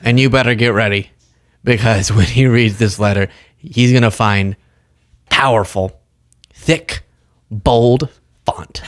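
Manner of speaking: loose mock politician with laughs breaking in; half-hearted impression, halting between words; Chuck Schumer. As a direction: lightly imitate a senator making feeble threats. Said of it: "I can't even do his accent".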